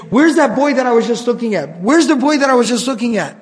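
nervous, insistent questioning, lightly acted; retold worried searching, a touch urgent; mild mock panic. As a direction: imitate a man starting to panic. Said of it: "he got really, really nervous".

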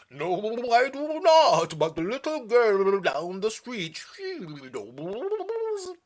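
light silly sea-creature voice; lightly voiced octopus. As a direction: play the octopus a little strange.

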